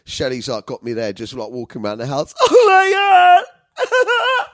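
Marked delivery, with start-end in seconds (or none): 2.4-4.5 loud, very high mock crying; hammed-up wailing. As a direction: cry out in comic, over-the-top grief. Retold wailing over dead dad.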